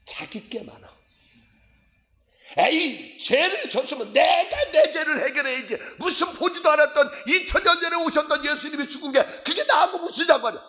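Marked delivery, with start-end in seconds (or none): 2.6-10.6 high, indignant mock protest; argumentative skeptic. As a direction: argue back like a scoffing unbeliever, pitched way up. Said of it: "요렇게 따진다니까". (따지듯 높은 목소리로)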